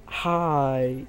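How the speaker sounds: lightly imitated, drawn-out hi; imitated disabled man's greeting. Disabled man greeting the friend from his wheelchair, lightly imitated drawn-out greeting. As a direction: stretch the greeting, only slightly put on. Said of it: "in a mentally retarded way".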